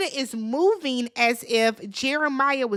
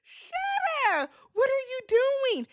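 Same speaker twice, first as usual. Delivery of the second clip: mock wailing; 11 semitones higher than usual. The vlogger mock-wails at Huda, hammed-up crying voice. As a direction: whimper it like a hammed-up sob. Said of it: "I was like".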